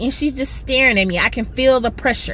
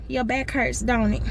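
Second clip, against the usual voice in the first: soft menacing hex; 8 dB quieter than usual. Retold or imitated. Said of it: "And so then I said".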